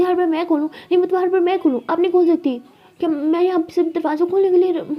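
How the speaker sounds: put-upon, mildly indignant; annoyed retort. Acted. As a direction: protest at being the one always asked. Annoyed retort over door.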